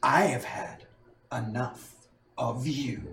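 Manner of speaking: slow, quiet, menacing snarl of rage. A figure dims the lights and grows larger before striking his foe: snarling with rage. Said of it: "In a snarl of rage".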